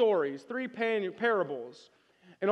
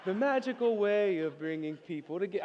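laughing jingle; 3 semitones lower, 3 dB quieter than usual. Retold or imitated. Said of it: "about as punk rock as".

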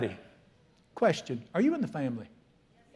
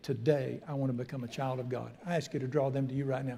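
prayer. Acted. Leads a prayer.

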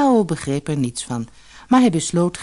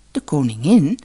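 a puzzled questioning repeat; a touch of bewildered surprise; surprised echo; 4 dB louder than usual. Acted. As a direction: echo it back in mild surprise. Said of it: "herhaalde Tao verbaasd".

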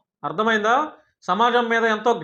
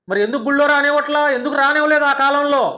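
higher and louder, hammering the questions; angry raised voice; 4 semitones higher, 3 dB louder than usual. Real, not acted. Ranting at her online critic, angry raised voice. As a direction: demand an answer, voice climbing in anger.

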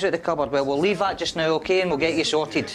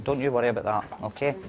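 reassuring; 3 semitones lower than usual. Real, not acted. Paramedic calming an injured patient.

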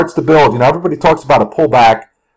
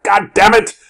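mildly acted angry swearing, raised pitch; mock exasperated outburst; cursing outburst; 5 semitones higher than usual. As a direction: curse at the chart out of nowhere. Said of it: "I'll just start cursing out of nowhere".

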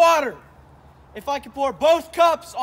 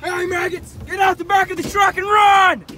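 barking gym coach; 4 semitones higher than usual. Acted. Playing drill sergeant to losers.

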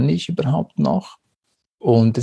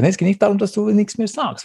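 higher-pitched protesting reply; retold objection; 8 semitones higher, faster than usual. Partner objects that silence is no solution, protesting higher. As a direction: push back in a raised pitch.

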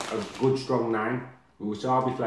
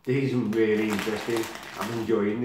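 chewing while talking; words muffled by snack; mouth half full. Real, not acted. Seen 1: Eats snack pieces from bag, hand to mouth, chewing between words.

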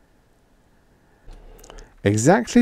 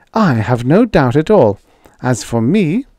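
higher, pointed retort with an acid edge; acidly; 6 semitones higher, 5 dB louder than usual. A narrator's reading. Edith answering Roy's teasing, acidly. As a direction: carry on the acid retort, pitched up. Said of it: "Edith cut in acidly".

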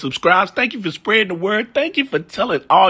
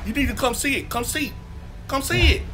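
scared dog voice; 4 semitones higher than usual. Acted. Voicing scared dog at closet.

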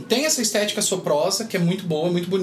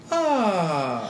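falling vocal fry. Shown as a demonstration. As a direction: creak that drops down on ah. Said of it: "Faz mesmo caindo assim".

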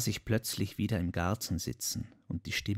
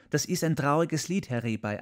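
quoting Marie; 5 semitones higher, 4 dB louder than usual. Retold or imitated. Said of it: "Sie hat gesagt".

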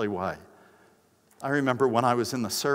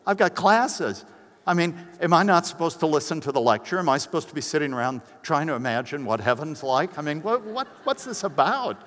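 higher, mock bewildered student pushing back; bewildered listener; 4 semitones higher, 3 dB louder than usual. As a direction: play the confused skeptic, exasperated. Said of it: "And you go".

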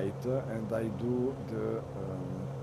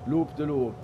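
excited; 6 semitones higher, 8 dB louder than usual. Real, not acted. Cheering a guest pilot's stunt.

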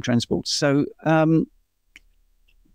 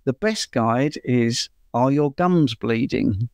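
smile in voice. Real, not acted. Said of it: "saying it with a bit of a smile in my voice".

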